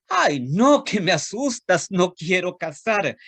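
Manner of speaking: mock fright in a tiny high voice; startled little ant. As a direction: shrink back from the scary ox.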